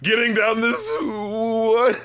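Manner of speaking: mock confusion. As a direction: quote the lyric, then balk at it. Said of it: "And so I was like".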